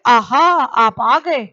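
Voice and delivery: slow, delighted "आहा" like greeting a guest; a teacher's mild demo of glad surprise; joyful welcome. Shown as a demonstration. Teacher showing students a joyful greeting, lightly delighted. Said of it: "ये आहा है वो हर्षबोधक अव्यय है".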